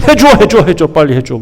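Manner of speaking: pushy mock demand, rising on the first 해줘; bossy demanding. Preacher mimics the people ordering Moses, mock bossy. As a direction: nag like a spoiled crowd insisting. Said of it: "명령하는 투로 한다니까".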